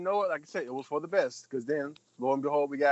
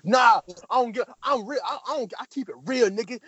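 higher, tough street voice; mock Ghostface; 6 semitones higher than usual. Imitating Ghostface defending himself, higher tough street voice. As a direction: insist you keep it real.

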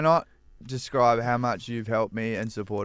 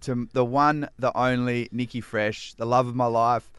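emotional tribute. Real, not acted. Co-host honouring the love of their life, emotional. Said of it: "so emotional talking about that song".

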